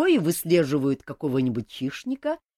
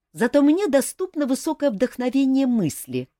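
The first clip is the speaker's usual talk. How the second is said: louder, gloating retort with stress on мне; 8 semitones higher, 7 dB louder than usual. A narrator's reading. King needling Elmar, gloating. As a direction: savor the jab, stress мне. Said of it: "злорадно ответил король".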